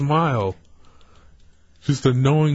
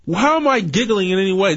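nervous; 5 semitones higher than usual. Real, not acted. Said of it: "This is how I sound when I'm".

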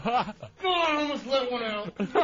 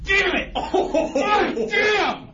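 loud pained laughing yell; pained shout; 3 semitones higher, 3 dB louder, much slower than usual. Real, not acted. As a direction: shout through the sting, half laughing. Real pain from whip lash.

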